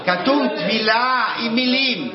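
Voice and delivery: loud, high insistence, repeating over the noise; real shouting to be heard over interruptions. Real, not acted.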